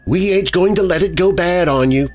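high, sinister taunt; menacing woman, pitched high; sinister hiss. A narrator's reading. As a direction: taunt with a sneer, slowing toward the end. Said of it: "she hissed at me".

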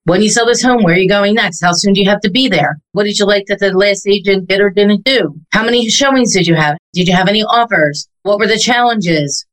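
brisk, practiced run of sales questions; rapid-fire script. Shown as a demonstration. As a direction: rattle off the script questions without pausing. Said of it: "spit out there so quickly".

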